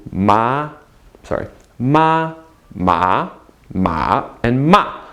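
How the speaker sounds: "ma" in each Mandarin tone in turn; four-tone demo. Shown as a demonstration. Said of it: "the four tones in Chinese".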